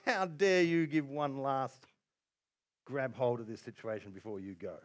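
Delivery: defiant rebuke. Pretend. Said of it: "I could think".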